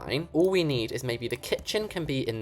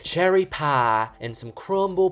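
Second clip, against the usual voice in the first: slow, drawn-out mock American accent; attempted American accent; 3 semitones higher, slower than usual. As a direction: put on an American diner accent, amateurishly. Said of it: "they say it in that really cool accent".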